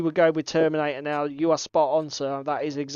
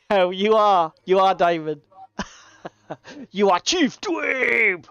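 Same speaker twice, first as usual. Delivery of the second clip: laughing teasing; 2 semitones higher, 4 dB louder than usual. Retold or imitated. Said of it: "and I said".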